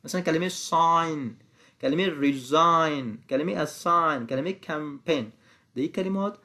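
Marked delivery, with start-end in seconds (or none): 0.5-5.2 "sign", "resign", "assign", "campaign" with no G sound; silent G. Shown as a demonstration. Teacher listing examples of silent G, slow model pronunciation. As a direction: draw out each word, leaving the G silent.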